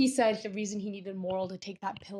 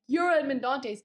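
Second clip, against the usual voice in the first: higher-pitched incredulous question; verbaasde vraag; 5 semitones higher, 3 dB louder than usual. Retold or imitated. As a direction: act out a stunned realization. Danglars learns the Count's identity.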